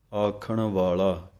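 ਆਖਣ ਵਾਲਾ ਹੌਲੀ, ਅੰਤ ਉੱਤੇ ਠਹਿਰਾਅ; ਆਖਣ ਵਾਲਾ ਕਹਿ ਕੇ ਰੁਕੋ; pause after phrase. Shown as a demonstration. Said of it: "ਇੱਥੇ ਵਿਸਰਾਮ ਹੈ". (ਵਿਸਰਾਮ ਵਾਲਾ ਹੌਲੀ ਪਾਠ)

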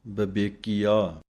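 ਬਬੇਕੀਆ said slowly, syllable by syllable, b not v; careful pronunciation. Shown as a demonstration. Teacher sounding out ਬਬੇਕੀਆ for students. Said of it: "ਬੱਬੇ ਸਿਹਾਰੀ ਲਾ ਕੇ ਬਬੇਕੀਆ ਪਾਠ ਹੈ".

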